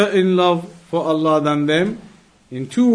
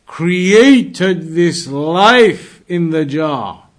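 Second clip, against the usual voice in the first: challenging demand; 4 dB louder, slower than usual. Retold or imitated. Boy challenges ruler, retold story.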